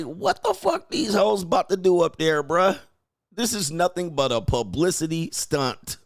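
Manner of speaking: high, scoffing mock voice; mocking a scoffing woman. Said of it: "She's like".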